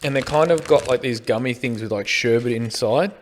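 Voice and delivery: talking while chewing; mouth full. Real, not acted. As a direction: chew a gummy while speaking. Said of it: "I'm eating, I'm eating these".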